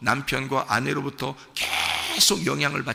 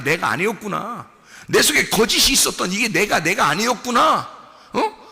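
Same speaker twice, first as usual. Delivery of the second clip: building realization; 5 semitones higher, 3 dB louder than usual. Acted. Believer discovering the false self within, building realization. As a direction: let each repeated admission climb in fervour.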